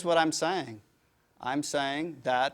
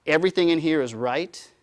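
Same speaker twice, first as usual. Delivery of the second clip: mock dogmatic; 7 dB louder than usual. Mocking closed system mindset.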